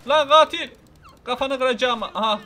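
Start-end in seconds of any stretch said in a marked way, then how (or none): 0.1-0.7 much louder and higher yell; full shout. Real, not acted. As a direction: bellow it across the street. Shouting at the killer again. (katile bağıran yüksek, öfkeli bağırış)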